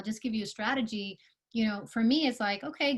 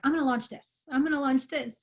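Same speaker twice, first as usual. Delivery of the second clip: mock-excited founder, a bit higher; imitated excitement; 4 semitones higher, 4 dB louder than usual. Coach mimicking founders who launch too many offerings, mildly excited. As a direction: play an eager founder announcing launches. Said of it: "when you get really excited".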